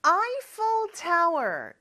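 Eiffel said as English "AI-fel", not Korean 에펠; English pronunciation. Shown as a demonstration. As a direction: stretch "Eiffel" slowly with the English vowel. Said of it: "영어로는 조금 발음이 다르죠". ("Eiffel"을 아이펠처럼 천천히 영어 발음으로)

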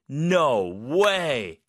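stretched, emphatic thrilled "no way"; excited amazement. Shown as a demonstration. Teacher hearing Ellie got into Harvard, excited. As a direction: react with excitement to wonderful news. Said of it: "좀 이렇게 흥분한 상황에서".

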